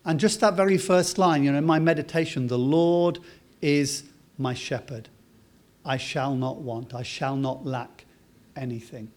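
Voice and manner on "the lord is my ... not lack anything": slow meditative reading. Shown as a demonstration. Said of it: "as I'm reading that slowly".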